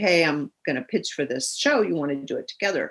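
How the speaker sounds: plain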